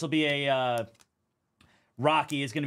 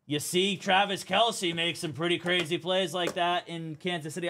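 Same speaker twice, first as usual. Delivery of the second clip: "You see" pitched up in a light mock commentator voice; lightly imitating a TV analyst's know-it-all aside; mocking Collinsworth; 5 semitones higher than usual. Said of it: "or Collinsworth said".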